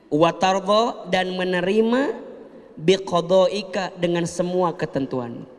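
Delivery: slow, drawn-out prayer recital; slow recitation. Shown as a demonstration. Teaching the prayer to the congregation, slow recitation. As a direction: recite each word slowly.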